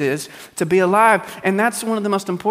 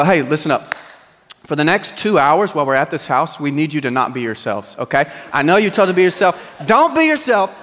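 put-on louder, firm dad warning the kids in the car; mock stern car lecture; 2 semitones lower, 4 dB louder than usual. Father warning his kids before a friend's house, firm and loud. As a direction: lay down the law before the visit.

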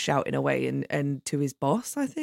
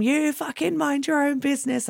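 higher-pitched mock telling-off; imitated angry outburst; 10 semitones higher than usual. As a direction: imitate a man going off at someone. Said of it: "starts going off at him".

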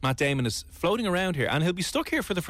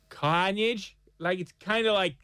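higher, weird Boston accent slipping toward New Jersey; attempted Boston accent; 5 semitones higher, slower than usual. Shown as a demonstration. Host demonstrating the vowels, botched Boston accent nearing New Jersey. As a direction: push a rough Boston accent up in pitch. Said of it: "gonna sound like a weird New Jersey person".

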